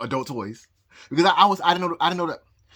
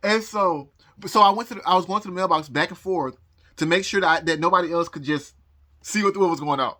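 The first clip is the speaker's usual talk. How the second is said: ordinary talk, nothing marked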